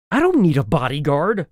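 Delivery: bristling. Acted. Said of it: "I bristled".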